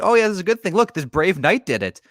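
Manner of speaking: smug mock Ciri. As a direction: ham up a girl praising her own deed. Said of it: "she's like".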